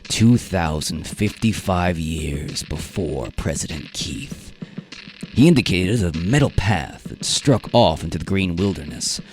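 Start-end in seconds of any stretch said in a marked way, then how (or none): 0.1-4.5 stern safari leader. Acted. Travis voice.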